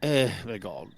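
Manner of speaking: a groaning sigh to friends; weary sigh into speech; exasperated sigh. Acted. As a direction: sigh out the words. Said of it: "And then I sigh".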